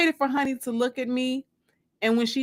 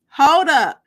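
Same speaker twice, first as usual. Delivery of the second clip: higher, louder call to wait; 5 semitones higher, 9 dB louder than usual. A narrator's reading. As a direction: tell her to hold on. Zeke stopping her question.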